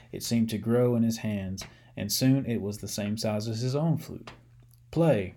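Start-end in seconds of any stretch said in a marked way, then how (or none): 4.9-5.3 commanding. Acted. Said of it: "commanded Seamus".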